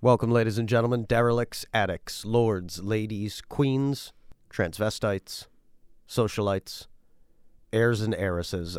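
fast, grand showman welcome; announcer. Acted. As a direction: open the show like a ringmaster. Grand show opening welcome.

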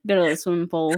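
put-on Pittsburgh accent with "pool" like "pull"; mock Pittsburgh accent. Outsider teasing locals after a laugh, mock Pittsburgh accent. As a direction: imitate a Pittsburgher's short-vowelled pool. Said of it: "But you guys are like".

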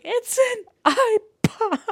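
high, slow, sobbing through a laugh; tearful squeal of joy; crying. Retold or imitated. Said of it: "I sobbed".

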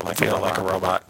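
distorted echoing mic; warbled broken-up audio; glitchy pitch jumps. Real, not acted. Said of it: "now you have an echo".

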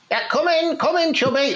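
high singsong call to come in; drawn-up, high-pitched summons. Acted. Calling visitor into the room.

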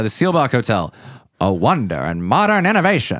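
put-on a light old-time announcer read; generic radio voice. Introducing the Seelbach Hotel to listeners in a mild radio announcer voice. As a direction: present the hotel like a vintage radio host. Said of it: "That was just generic radio voice".

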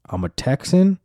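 high, loud, proud Texan lady; mock Texan woman. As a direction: puff up like a gun-proud Texan. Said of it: "faction of women that were like".

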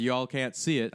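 slight Southern twang; slipping Southern. Real, not acted. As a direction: let a little Southern accent slip in. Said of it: "I don't know why I got Southern".

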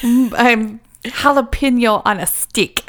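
slow, lightly voiced puppet; laughing through a puppet line. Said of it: "he does the ventriloquist".

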